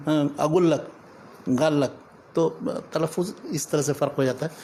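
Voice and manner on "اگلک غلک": Yemeni-style اگلک with hard g for qaf. Shown as a demonstration. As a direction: demonstrate اگلک، غلک as local Arabic speakers say them. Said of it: "گاف بنا دیتے ہیں اس کو".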